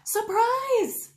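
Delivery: a high, sudden whisper; spring it on him in a hush; whispered surprise. Acted. Babies pop out at Dewey.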